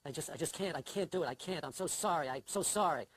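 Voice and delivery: low, hushed mock-mournful apology, gradually lifting into pleading; put-on grave, sorrowful excuse-making; funereal voice. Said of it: "I put on my funereal voice".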